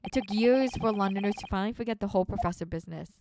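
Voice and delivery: a hint of a Scottish local, displeased; lightly voiced grumpy Scot. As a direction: read as a reluctant Scottish witness. Voices a reluctant Scottish game character.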